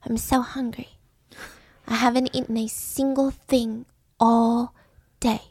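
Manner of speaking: put-on pitiful little boy whisper; whispered begging. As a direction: beg softly like a hungry five-year-old. Child begging for food, puppy eyes.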